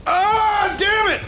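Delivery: sudden high yell of frustration; frustrated yell. Real, not acted. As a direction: shout it out, annoyed.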